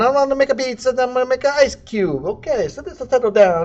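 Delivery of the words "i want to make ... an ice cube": higher, hammed-up Italian accent; cartoon Italian accent, played for laughs; mock Italian accent. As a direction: lay on a bad Italian accent. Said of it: "my Italian accent needs some work".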